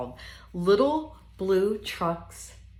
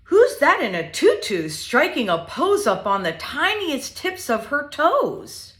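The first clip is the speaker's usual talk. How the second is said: lively, sing-song picture book reading; reading to children; 5 dB louder than usual. Acted. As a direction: read it playfully to little ones.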